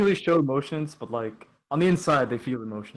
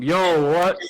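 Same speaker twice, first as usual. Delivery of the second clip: mildly raised mock yell; Andrew's scream; 4 semitones higher, 6 dB louder than usual. Host relaying a shout heard from upstairs, mock yell. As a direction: imitate an overheard shout, a bit louder. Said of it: "I can hear Andrew upstairs screaming".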